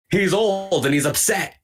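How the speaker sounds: high-pitched, hammed-up weepy whine; mock misty-eyed. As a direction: wail it like a distraught fan, for laughs. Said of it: "like, misty-eyed".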